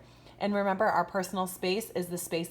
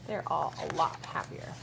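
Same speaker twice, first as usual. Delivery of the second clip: whisper. Real, not acted. Teacher pointing out the happy faces to her class, whispering. Aside to class over picture.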